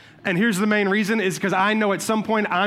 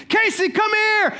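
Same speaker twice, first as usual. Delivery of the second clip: high, drawn-out mock yell; screaming for someone; 13 semitones higher, 4 dB louder, slower than usual. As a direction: holler for your kid across the house. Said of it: "I'm screaming for Casey".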